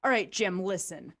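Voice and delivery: heated wrestling promo yelled at the bottle. Acted. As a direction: tell the whiskey off like a heel. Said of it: "cut a wrestling promo against the only man".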